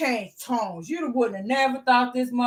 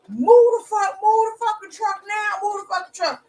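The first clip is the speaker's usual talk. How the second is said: higher, louder imitation of an old man yelling; mock yell; 8 semitones higher, 4 dB louder than usual. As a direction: yell the order at her like the angry neighbour.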